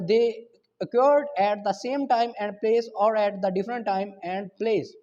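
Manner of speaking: reading the law word by word, very slowly; measured legal reading; slow statute reading. Acted. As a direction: dictate the section slowly for notes. Reads article nineteen aloud.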